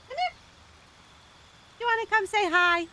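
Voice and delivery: very high cooing voice; pet talk. Real, not acted. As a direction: coax a pet over sweetly. Coaxing the pet to come.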